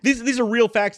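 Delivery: laughing. Real, not acted. Laughing while insisting.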